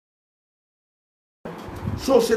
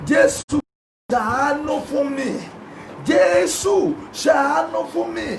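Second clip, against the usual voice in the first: shouting; 3 semitones higher than usual. Retold or imitated. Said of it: "Bartholomew pariwo".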